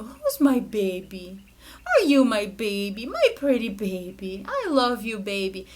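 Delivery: put-on slow, doting parentese to a baby; baby talk. Shown as a demonstration. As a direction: coo lovingly and slowly to the baby. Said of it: "Com aquela vozinha cheia de expressão".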